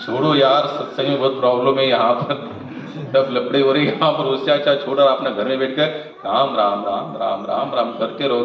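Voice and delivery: dismissive grumble. Retold or imitated. Mimics devotees giving up on satsang.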